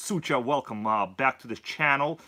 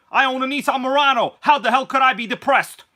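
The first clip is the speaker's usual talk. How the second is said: mock indignation; 8 semitones higher, 7 dB louder than usual. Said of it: "All right, kidding around".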